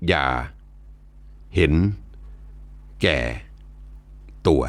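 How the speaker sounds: each syllable อย่า, เห็น, แก่, ตัว set apart by long pauses; four syllables spaced out. Shown as a demonstration. Narrator quoting the monk's last four-syllable teaching, with long pauses between syllables. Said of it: "สี่พยางค์ที่ว่านี่คือ".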